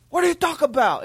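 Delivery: high, exasperated mock yell; indignant driver. Angry driver baffled by Jeremy's question, indignant mock yell. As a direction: blurt it out like an outraged motorist. Driver's outraged reply, retold.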